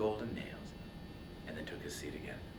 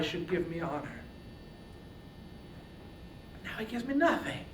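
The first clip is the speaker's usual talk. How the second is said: grieving prayer; 8 dB louder than usual. Acted. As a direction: cry out to her, wounded and pleading. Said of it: "He prayed to his dear mother".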